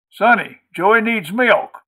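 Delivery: high, loud, drawn-out call; hollered order. A narrator's reading. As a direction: holler slowly to someone in the next room. Maudie hollers to her son.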